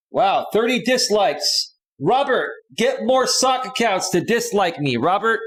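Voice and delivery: high-pitched taunting call; mocking call-out. Real, not acted. Calling out a disliker on stream.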